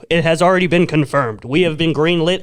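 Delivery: booming promo announcer. Pretend. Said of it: "Sounds like, like an Adult Swim".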